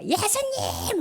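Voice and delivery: high but restrained call; demonstrated cheer-style call. Shown as a demonstration. Teacher showing children how to call Jesus, high restrained cheer. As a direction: model a chant-like shout at half volume. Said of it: "구호 외치듯이 야구할 때 막 소리 지르죠?".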